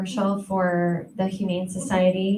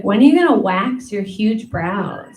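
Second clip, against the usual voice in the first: catty friend; 6 dB louder than usual. Retold or imitated. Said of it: "She's like".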